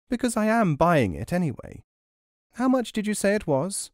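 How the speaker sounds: a hint of a scheming crone; old crone voice. A narrator's reading.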